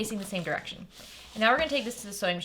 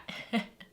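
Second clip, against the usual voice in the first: small, quiet laugh; brief, low-key chuckle to yourself; soft chuckle; 5 dB quieter than usual. Real, not acted. Sewing teacher to viewers after showing the prongs, soft chuckle.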